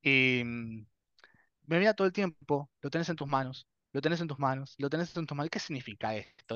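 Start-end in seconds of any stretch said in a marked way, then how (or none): 2.8-6.5 softly repeated, like a recalled voice; quiet inner message. Retold or imitated. Inner voice during visions, quiet retold message. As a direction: drop the volume and repeat it like a haunting thought.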